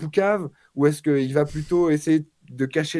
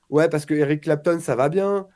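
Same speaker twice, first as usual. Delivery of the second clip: imitating a guitarist; 2 semitones higher than usual. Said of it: "c'est comme si un musicien avait fait un livre".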